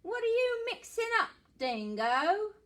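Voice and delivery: high and quick, nosy; echidna voice. Acted. Echidna asking the dingo about his stew, high and quick. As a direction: rattle it off high and curious.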